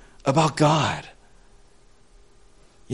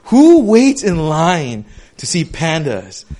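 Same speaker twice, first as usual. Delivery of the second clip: incredulous; slower than usual. Retold or imitated. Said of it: "And I was like".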